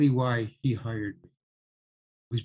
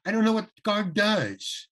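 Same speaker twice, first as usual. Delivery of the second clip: sulky attitude; 6 semitones higher than usual. Retold or imitated. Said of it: "full out with my attitude".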